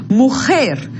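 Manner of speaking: "Mujer" with a strong final jer; stress on last syllable. Shown as a demonstration. Teacher modelling an aguda word for students, stressing the end of "Mujer". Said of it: "La última também".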